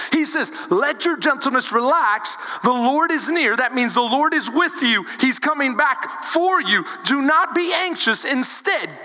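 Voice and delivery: impassioned preacher addressing the congregation; preaching. Real, not acted. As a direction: preach it urgently, with conviction. Preaches at full force.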